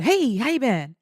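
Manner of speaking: casual mock greeting; breezy greeting. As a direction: greet them as if nothing is wrong. Older date's breezy late greeting.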